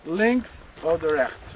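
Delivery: Links oder rechts said slowly in German. Shown as a demonstration. Guide translating the German command, slow German. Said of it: "Left or right".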